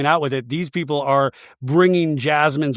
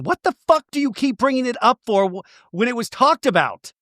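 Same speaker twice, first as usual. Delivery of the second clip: imitating Kristen; 9 semitones higher than usual. Kristen quoted angrily.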